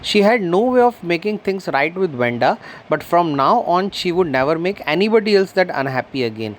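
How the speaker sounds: slow, careful read-aloud of the English text; story reading. A narrator's reading. Teacher reading the story slowly to her class. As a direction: read each word out slowly for the students.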